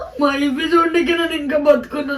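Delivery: real tearful sobbing words; choked up, pleading through tears; crying. Real, not acted. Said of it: "ఏడవకే please".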